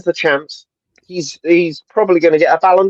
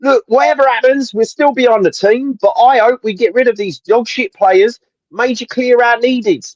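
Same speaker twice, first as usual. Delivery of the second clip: put-on reading a comment in a Cockney accent; London Cockney accent, slightly raised; 4 semitones higher than usual. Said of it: "a Cockney accent on your, on your comment".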